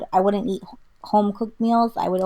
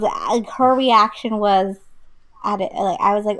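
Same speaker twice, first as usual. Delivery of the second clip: ordinary talk, nothing marked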